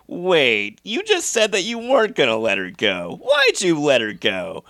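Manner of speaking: drawn-out, incredulous retold complaint; mock exasperated protest. Viewer protesting to Carrie about letting Sue go, mock exasperated. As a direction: act out baffled objection, rising then slowing. Acts out own protest at the plot.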